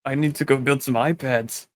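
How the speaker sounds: a lightly voiced mock Mexican accent; mock Spanish accent. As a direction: ham up a cartoon Spanish accent. Continuing mock Spanish bit.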